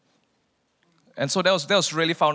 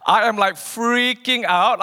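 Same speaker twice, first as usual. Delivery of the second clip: laughing freak-out; 7 semitones higher, 6 dB louder, slower than usual. Retold or imitated. Retelling the sky vision.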